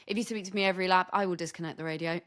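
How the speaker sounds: quick, flat threat; dead dry, no hint of a joke; deadpan. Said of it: "so incredibly deadpan".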